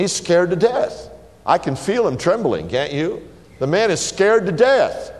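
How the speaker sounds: emphatic. Real, not acted. Preacher emphatic about fear.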